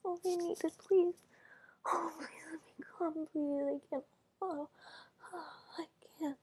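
beg, voice climbing and breaking into cries; breathless begging. Acted. Begging her partner for release, urgent and breathless.

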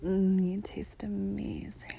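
very slow satisfied whisper. Acted. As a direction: savour each word in a whisper. Whispers throughout, intimate.

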